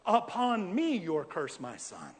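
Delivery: a mock-wise little master, slowed down; Yoda voice. Mother answering her son in a playful Yoda voice, slow. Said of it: "in her best Yoda voice".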